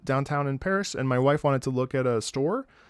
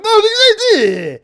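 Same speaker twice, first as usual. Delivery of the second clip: loud, high outburst; exasperated oh; 12 dB louder than usual. Retold or imitated. Other driver exploding, loud and high. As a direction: throw up your hands with a loud oh. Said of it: "the other guy was like".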